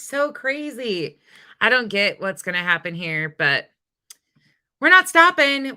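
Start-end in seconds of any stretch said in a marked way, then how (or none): 4.8-5.7 forceful declaration. Real, not acted. Defiant statement to chat.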